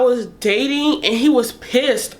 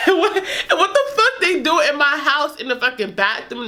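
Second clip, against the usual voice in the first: laughing; 4 semitones higher than usual. Real, not acted. Laughing while retelling.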